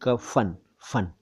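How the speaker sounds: कफन as "ka-fan", then फन alone; plain k and clear f in कफन; f sound. Shown as a demonstration. Teacher showing the dotted letter, कफन split to bring out f. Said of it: "फ के नीचे है".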